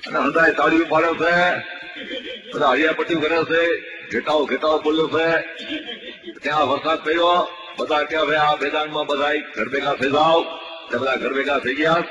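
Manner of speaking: lively mock sports commentary, rising as the game heats up; mock play-by-play. Comedian mocking a village match, commentary voice. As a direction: call the match like a radio commentator, tongue in cheek.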